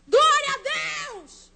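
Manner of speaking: high, drawn-out shout of praise; exult, stretching the words out; jubilant shout. Retold or imitated. Mother rejoicing that her daughter left the group, jubilant.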